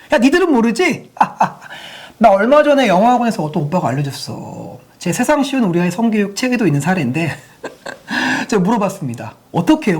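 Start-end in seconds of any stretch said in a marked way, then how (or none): 0.1-4.8 smug schoolgirl. Retold or imitated. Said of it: "하는 거예요".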